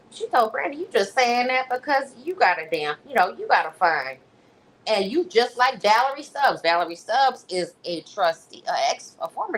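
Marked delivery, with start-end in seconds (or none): 0.8-6.6 mock sassy Tiffany. Quoting Tiffany to Brandy.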